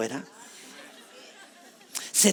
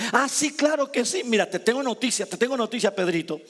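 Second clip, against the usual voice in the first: higher, sarcastic "oh sure"; mock sarcasm; 6 semitones higher than usual. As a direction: tease Peter with ironic disbelief. Mocking Peter as Jesus.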